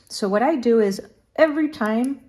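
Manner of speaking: talking with a needle in her mouth. Real, not acted. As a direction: speak around a needle held in the mouth. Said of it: "sorry, I had the needle in my mouth".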